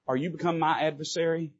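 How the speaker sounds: shield him with your voice; quiet protective warning. Acted. David steps between them, quiet and firm. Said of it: "And he says".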